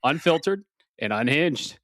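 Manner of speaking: panting after running upstairs; breathless intro, catching air; out of breath. Real, not acted. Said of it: "a little out of breath".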